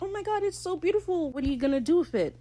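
high, breathless gushing, then fast; starry-eyed admirer gushing at his love; smitten Steed. Retold or imitated. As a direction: gasp over the fish like it's a jewel. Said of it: "and Steed's like".

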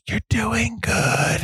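high, slow, sing-song encouragement; mock woman on the phone. Woman on payphone cheering the actor mid-take, high and slow. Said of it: "She goes".

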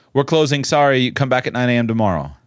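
brisk, dismissive store clerk; dismissive employee. Acted. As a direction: brush the customer off fast. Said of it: "which of these is the employee and which of them is the owner".

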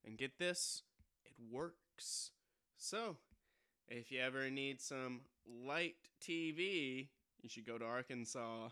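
deadpan news delivery; late night news read. Acted. Reads joke headline.

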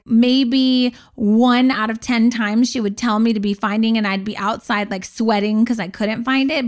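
ordinary delivery

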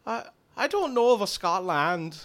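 villager's put-on Irish brogue; Irish accent. Druid asked if he is from Scotland, Irish accent. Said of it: "That's more Irish".

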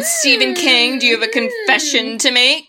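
talking through the hiccups. Real, not acted. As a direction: speak while hiccuping. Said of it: "I have the hiccups".

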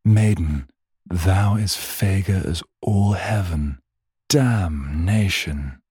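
a lightly voiced old-timey roadman; mock olde English. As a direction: ham up a medieval wooer. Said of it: "Back then, it would have been like".

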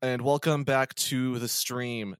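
upbeat livestreamer greeting; streamer voice. Acted. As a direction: greet chat like a hyped streamer. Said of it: "It's your boy, Scott the Squirrel".

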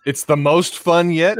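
hammy villain line. Retold or imitated.

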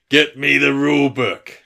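Hugh Laurie. Retold or imitated. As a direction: imitate an actor's loud, drawn-out order. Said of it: "it's actually Hugh Laurie's voice".

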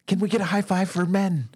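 high-pitched, excited whoop of approval; rally them with a high cheer; triumphant cheer. Acted. Man calling for a high five, triumphant cheer.

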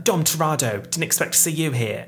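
lightly mimicked Cockney accent; Helen Mirren's Cockney. Vlogger quoting the actress again, mock Cockney accent. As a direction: put on a Cockney greeting. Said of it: "distressing Cockney accent".

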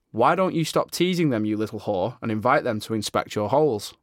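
a hint of a posh mistress. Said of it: "I put my posh voice on there a little bit".

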